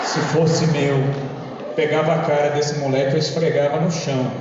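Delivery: low-pitched threat at full volume; mock threat. Churchgoer imagining disciplining someone else's child, mock menacing. Repeats his private thought out loud.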